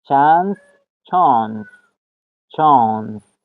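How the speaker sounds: "چانس" mit langem A, "chaans"; model pronunciation. Shown as a demonstration. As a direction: repeat "چانس" slowly with an open A. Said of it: "آ".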